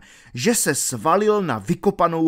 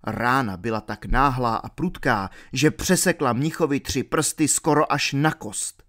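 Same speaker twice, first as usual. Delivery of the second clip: ordinary delivery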